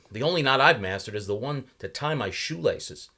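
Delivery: lightly voiced young traveller; polite young man making small talk; Mason voiced. A narrator's reading. Mason's voice in read story.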